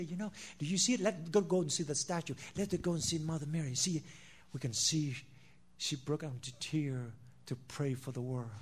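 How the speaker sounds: soft, low, persuasive murmur, imitating the deceivers; mock hushed enticement; hushed coaxing quote. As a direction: lure them in quietly, like a false prophet.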